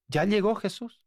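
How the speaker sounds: high, bright welcome-home voice; wife announcing her husband is home; wife's quoted greeting. Retold or imitated.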